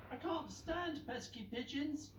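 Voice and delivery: high, slow fed-up sweeper; grumpy sweeper scolding a pigeon; irritated road sweeper. Acted. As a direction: spit out the annoyance slowly. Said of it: "she shouted".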